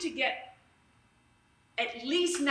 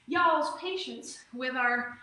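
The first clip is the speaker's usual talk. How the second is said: slow, playful Southern drawl on "Y'all's patience"; Southern accent; slower than usual. Pretend. Instructor repeating her thanks in a mock Southern accent. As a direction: lean into a hammed-up Southern accent. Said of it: "got that southern accent all of a sudden".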